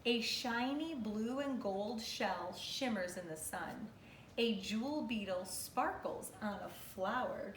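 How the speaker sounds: measured, expressive picture-book narration. Real, not acted. Teacher reading an animal book to kindergartners, expressive read-aloud.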